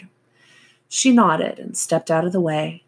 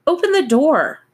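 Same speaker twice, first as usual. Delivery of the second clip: God's voice; 10 semitones higher, 7 dB louder than usual. A narrator's reading. God speaking, character voice.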